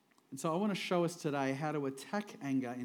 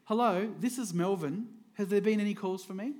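calm; 5 semitones higher than usual. Acted. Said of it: "the father calmly said".

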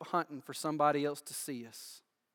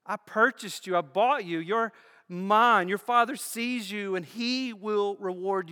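higher and louder, driving each line home; preaching at full force; 7 semitones higher, 6 dB louder than usual. Acted. Pastor rallying kingdom people, preaching at full force. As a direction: build the congregation up, line after line, with rising fire.

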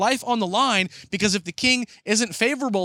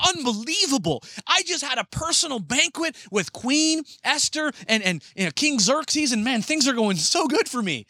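giddy, higher and bubbling over; excited; 4 semitones higher than usual. Acted. Haman gushing to himself after the banquet, excited and higher. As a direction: gush like a man who can't believe his luck. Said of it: "Haman leaves excited".

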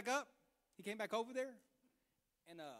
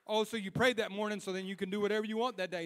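loud, raised-voice rebuke; challenging preacher; 4 semitones higher, 9 dB louder than usual. Acted. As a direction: challenge the room, then firmly refuse. Preacher challenges listeners, answers firmly.

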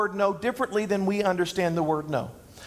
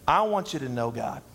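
weight on the word "know", low and measured; stress on know; 7 semitones lower than usual. Shown as a demonstration. Preacher tells the church his core message, stress on "know". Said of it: "emphasis on the word know".

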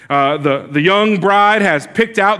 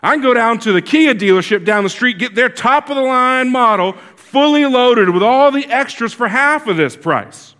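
higher, pushy haggling voice; exasperated husband; 5 semitones higher than usual. Retold or imitated. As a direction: throw it down as a final offer. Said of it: "kind of exasperated".

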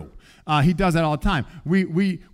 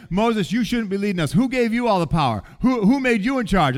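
mock indignant complaint; 5 semitones higher, 4 dB louder than usual. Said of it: "and they're saying".

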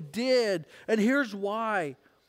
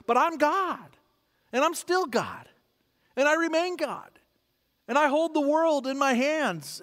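higher, emphatic proclamation; God's sovereign declaration; 5 semitones higher than usual. Retold or imitated. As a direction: assert supreme authority in imitated divine speech. Voicing God's answer to rebels.

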